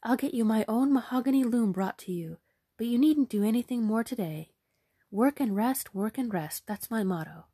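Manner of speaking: beam with royal delight; hammed-up enthusiastic queen.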